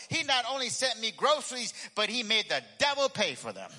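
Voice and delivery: triumphant shout. Acted. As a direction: crow it as the jubilant old lady. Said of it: "shouting even louder".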